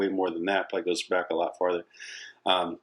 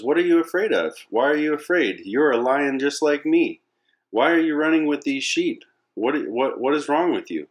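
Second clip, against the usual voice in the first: raised, insistent challenge; confronting adult lion; 7 semitones higher, 4 dB louder than usual. Acted. Adult lion questioning the scared cub, incredulous. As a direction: demand answers in a higher, pressing voice.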